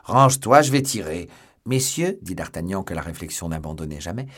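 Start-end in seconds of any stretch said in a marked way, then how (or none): 0.0-1.3 high, loud warning shout. A narrator's reading. Athos warns he will fire, shouting. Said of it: "cria Athos". 1.7-2.2 high, raised appeal; calling out. A narrator's reading. D'Artagnan stops the English gentlemen, calling out.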